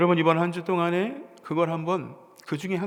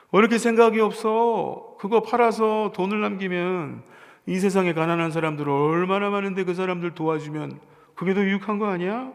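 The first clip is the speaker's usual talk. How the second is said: reproachful disciple; 2 semitones higher, 3 dB louder than usual. Retold or imitated. Disciples scolding the woman over wasted perfume, reproachful. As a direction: reproach her for wasting money. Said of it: "성경의 표현은 언제나 늘 정중하고 완곡해요".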